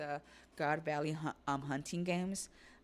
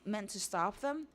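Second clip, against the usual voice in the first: startled villain; 6 semitones higher than usual. Acted. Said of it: "Somers is like".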